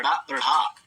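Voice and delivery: ड़ा said with a flapped tongue, ढ़ा with a breathy puff; retroflex flap demo. Shown as a demonstration. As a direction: clear flapped "ड़ा" then aspirated "ढ़ा". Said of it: "तो मेरा उच्चारण कैसे करते हैं".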